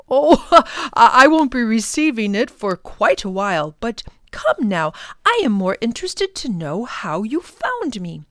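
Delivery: amused modest scholar; light laughing old man; chuckling professor. Acted.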